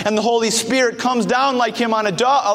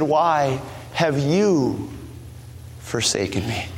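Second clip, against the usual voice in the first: anguished cry; 5 semitones lower, 4 dB quieter, slower than usual. Acted. Jesus's cry from the cross.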